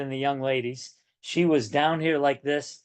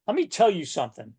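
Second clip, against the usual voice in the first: mock telling-off, pitched higher; higher-pitched parental lecturing; bossy coach; 4 semitones higher, faster than usual. Shown as a demonstration. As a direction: tell them like a coach laying down the law. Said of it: "sometimes a coach has to do that".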